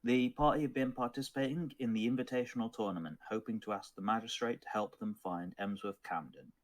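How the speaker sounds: measured storytelling recap; steady tabletop narrator delivery; game master's recap. Acted. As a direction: narrate the story so far to your players.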